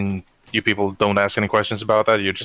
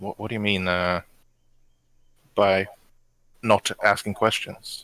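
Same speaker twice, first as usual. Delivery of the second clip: speaking in a hush. Retelling a moment during a breakfast order, asking in a hushed voice. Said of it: "in a hushed voice".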